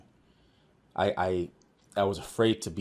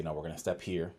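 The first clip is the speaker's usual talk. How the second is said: gentle guiding; 2 semitones lower, 7 dB quieter than usual. Retold or imitated. Guiding the doctor by the hand.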